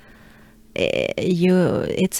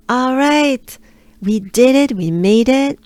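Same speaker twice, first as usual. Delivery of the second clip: upbeat; 5 semitones higher, 4 dB louder than usual. Real, not acted. Celebrating the finish.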